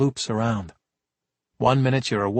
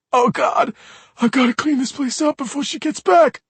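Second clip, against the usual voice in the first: crying plea; 13 semitones higher, 4 dB louder than usual. Acted. Sobbing kid begs the cops, wailing. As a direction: cry like a toddler. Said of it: "blubbering child".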